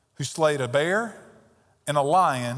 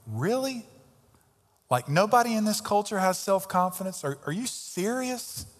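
incredulous; 4 semitones higher than usual. Real, not acted. Mocking cultural claim.

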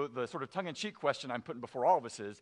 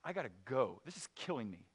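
much softer, lower, worn-out confession; weary, quiet resignation; 5 semitones lower, 9 dB quieter than usual. Retold or imitated. Preacher retelling Watterson quitting the strip, soft drained voice. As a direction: let it sink, almost under the breath, drained. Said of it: "And so he said".

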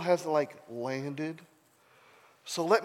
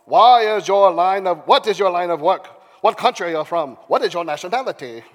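put-on interrogating voice; theatrical questioning, easing off from loud; demanding sailors; 4 semitones higher, 12 dB louder than usual. A narrator's reading. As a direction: fire questions in character. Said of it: "they demanded".

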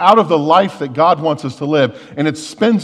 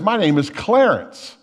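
lightly voiced parrot, higher and slow; 5 semitones higher than usual. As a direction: give a slow, slightly raised parrot reply. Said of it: "And the parrot says".

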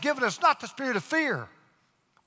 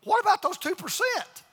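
higher, fretful questioning voice pitched up; mock worried listener; 5 semitones higher than usual. Pastor voicing an anxious congregant's objection, higher and fretful. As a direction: play the doubting churchgoer, pitched higher. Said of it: "You say".

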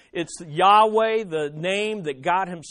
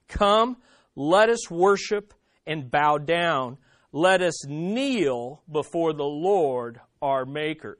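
slow psalm reading, weighty pauses between phrases; scripture reading; 4 semitones lower, slower than usual. Acted. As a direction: recite the psalm deliberately, settling lower at the end. Reads Psalm 95 aloud.

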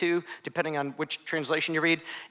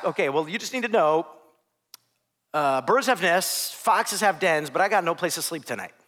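deadpan. Acted. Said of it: "his most office-like way possible".

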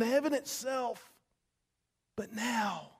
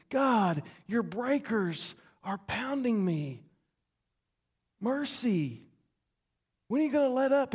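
anguished plea; 2 semitones higher than usual. Acted. Psalmist crying out to God under the waves, pleading. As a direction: beg for relief.

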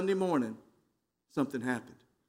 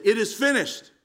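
mildly raised, declaring cry; 3 semitones higher than usual. Acted. Jesus at the end of his death, crying out. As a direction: call it out with moderate force. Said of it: "he cried out and he said".

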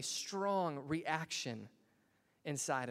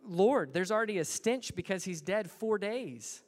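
rebutting; 5 semitones higher, 4 dB louder than usual. Acted. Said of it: "she kind of rebuttals him".

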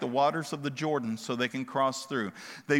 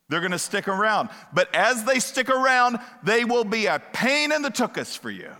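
louder, sarcastic "so fine"; exasperated God; 5 semitones higher, 5 dB louder than usual. Acted. God telling the people they chose this, mildly exasperated and louder. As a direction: give it like a fed-up parent.

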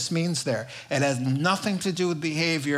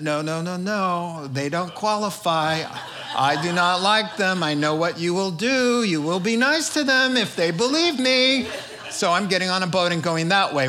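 acted protest, building higher and louder; indignant refusal; 3 semitones higher, 4 dB louder than usual. Jonah refusing to go to people he dislikes, indignant. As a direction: play a stubborn prophet digging in, voice rising.

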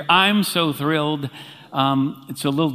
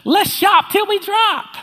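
squeaky falsetto doll voice, much higher and slowed; slower than usual. Retold or imitated. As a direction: mimic a talking toy in high falsetto. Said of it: "in a high falsetto voice".

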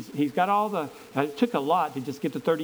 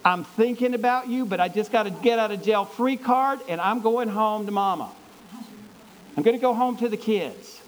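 joking goodbye; 4 semitones higher, 3 dB louder than usual. Retold or imitated. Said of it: "I would just say".

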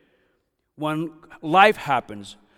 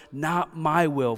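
slow and raised, wrung out in agony; anguished surrender; 3 semitones higher, slower than usual. Acted. Jesus praying to the Father in agony, slow anguished plea. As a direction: lean into each word like it costs everything. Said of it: "He's saying".

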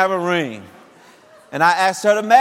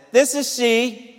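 her reply; 8 semitones higher, slower than usual. Retold or imitated. Old girlfriend answers the phone.

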